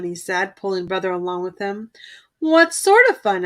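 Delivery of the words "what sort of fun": warily. A narrator's reading. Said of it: "asked brother warily".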